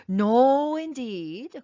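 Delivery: high, loud alarmed denial; alarmed protest. A narrator's reading. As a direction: refuse in a fright. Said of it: "mightily alarmed".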